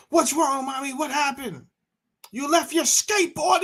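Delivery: put-on high sweet child's voice asking; high little-girl voice. Daughter asks mommy what happened, high childlike voice. Voicing his daughter, playful.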